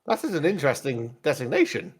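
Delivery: a hint of formal droid; pit droid. Droid reacts to being named, lightly voiced droid. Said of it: "best describe as a pit droid".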